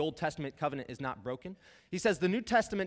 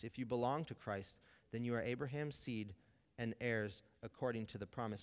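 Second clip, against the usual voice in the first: scripture reading. Acted. Pastor reads Galatians to the congregation, measured scripture reading. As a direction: read the verses with weight.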